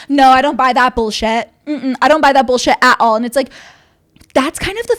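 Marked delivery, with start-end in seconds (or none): 0.1-3.2 mock defiant singer. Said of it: "And she's like".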